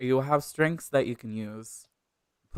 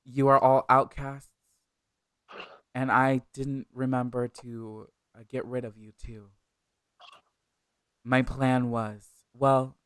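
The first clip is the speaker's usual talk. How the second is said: villain monologue; 3 dB louder than usual. Acted. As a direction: sneer it out, savoring each word. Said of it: "Now I have to give a villain monologue".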